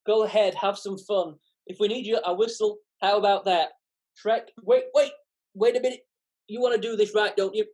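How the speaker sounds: a hint of a fast-talking Donkey. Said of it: "I'll have a bash at Donkey".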